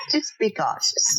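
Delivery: whispered playful warning. Real, not acted. Whispering a teasing warning to the hosts. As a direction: breathe it as a mock caution.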